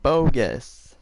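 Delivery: loud, punchy game-show call; demonstrated shout. Shown as a demonstration. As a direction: call it out for the contestants. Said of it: "you shout".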